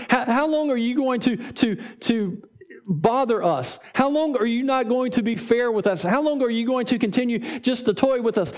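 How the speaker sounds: pressing, accusing question; the crowd accusing Jesus, mildly mock accusatory. Shown as a demonstration. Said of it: "It's accusatory".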